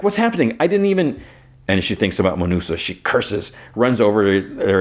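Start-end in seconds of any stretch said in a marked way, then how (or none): 0.0-1.2 high, alarmed retelling; flustered high squeal of alarm at normal volume; panicked. Retold or imitated. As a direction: pitch way up, mock panic. Panicking over convulsing friend.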